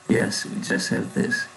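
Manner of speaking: soft whisper to himself; whispered repeat. Real, not acted. Coder whispers the line to himself in confirmation.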